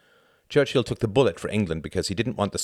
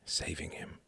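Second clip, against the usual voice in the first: breathy whisper, much softer; softly; 12 dB quieter than usual. A narrator's reading. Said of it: "he said softly".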